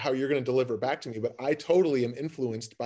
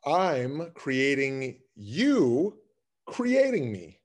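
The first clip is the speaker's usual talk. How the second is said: cave echo call; much slower than usual. Acted. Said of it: "yelling into a cave and it's the echo".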